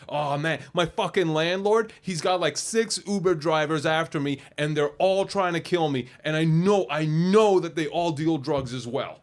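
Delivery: a hint of a guy spilling his conspiracy; paranoid stranger. Stranger in traffic telling her about his landlord, lightly voiced. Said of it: "And then he goes like".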